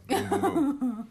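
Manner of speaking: high, slow, loud "boom, boom, boom"; mock punches voiced as drawn-out high booms; playful mock attack. Coach playfully going after a friend's defenses, high mock-attack booms.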